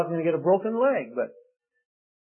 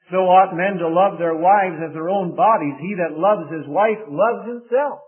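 scripture reading; 2 semitones higher, 5 dB louder than usual. Real, not acted. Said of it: "Now look at verse twenty-eight".

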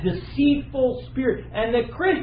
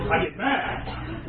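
laughing admission; much slower than usual. Retold or imitated. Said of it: "I'm not angry".

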